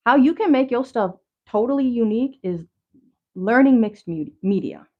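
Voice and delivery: breathless and rushed; talking out of breath. Real, not acted. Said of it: "I'm out of breath".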